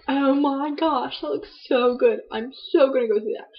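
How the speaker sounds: lightly replayed gush over a trailer; replaying her own eager reaction to a movie trailer, lightly excited; retold excitement. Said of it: "I was like".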